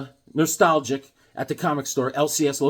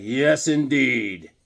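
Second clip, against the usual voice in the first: slow satisfied yes; 3 semitones lower, much slower than usual. Retold or imitated. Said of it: "He's like".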